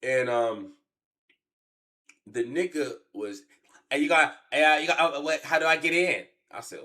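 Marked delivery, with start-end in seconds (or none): 3.9-6.3 lightly raised, louder put-on voice of a hesitant courier; delivery guy voice. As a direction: play the unsure delivery guy a bit higher and louder.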